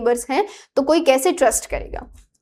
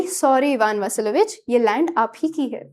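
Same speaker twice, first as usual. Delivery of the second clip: lovingly; 2 semitones lower than usual. Retold or imitated. Natalia sweetly gives in to Ivan, lovingly. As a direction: gently make peace with him. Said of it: "प्यार से बोल रही है".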